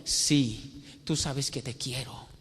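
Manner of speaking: softly spoken, subdued confession; a touch of sorrow in a quiet plea; understated acting of a grieving disciple; saddened reply. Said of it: "se entristece, empieza a llorar".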